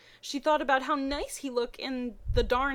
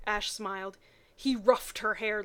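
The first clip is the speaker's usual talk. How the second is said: ordinary talk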